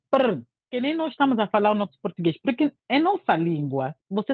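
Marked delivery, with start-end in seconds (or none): 0.1-0.4 quick rolled prr imitating fast native talk; rapid native speech burble. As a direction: mimic how a native rattles words off. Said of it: "o nativo fala assim".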